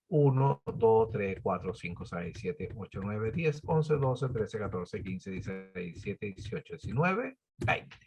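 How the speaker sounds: soft, low counting to oneself; counting under breath. Real, not acted. Teacher counting spreadsheet rows to check the total, under breath. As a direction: count along quietly, half to yourself.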